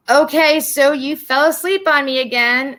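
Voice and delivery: high, amused, knowing friend voice; mock her friend catching her asleep again; teasing friend. Friend teasing her on the phone, high amused voice.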